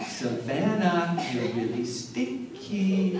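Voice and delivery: slow, drawn-out sing-song taunt; teasing big sister. Retold or imitated. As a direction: tease the little sister slowly, with relish. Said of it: "and finally she went".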